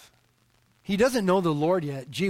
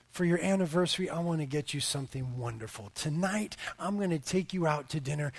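soft, tender offer to a wife; husband's sweet promise; 3 semitones lower, 7 dB quieter than usual. Acted. Husband offering wife an anniversary dinner, gently. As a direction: lower your voice and promise her a treat. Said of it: "what if I were to say to her".

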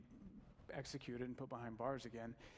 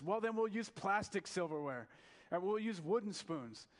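higher, louder mock exasperation; exasperated reply; 6 semitones higher, 6 dB louder than usual. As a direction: throw up your hands at her. Bishop answers his bickering wife.

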